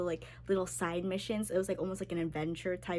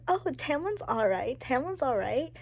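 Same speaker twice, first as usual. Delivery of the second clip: mock casual; 5 semitones higher, 3 dB louder than usual. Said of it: "Remember when I said".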